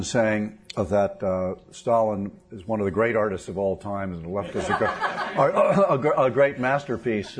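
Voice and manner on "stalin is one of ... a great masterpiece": words broken by a real laugh; laughing through it. Real, not acted. Host joking about tweeters, chuckling through the words. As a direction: laugh as the joke lands mid-sentence. Joking that Stalin is a great artist.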